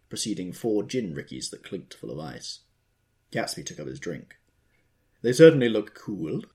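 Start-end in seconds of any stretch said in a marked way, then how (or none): 5.2-6.4 tense. A narrator's reading. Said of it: "with a visible tension".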